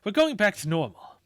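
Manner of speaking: deep, gruff demon command; demon boss voice. Acted. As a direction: bark orders like a demon boss. Demon calls its allies.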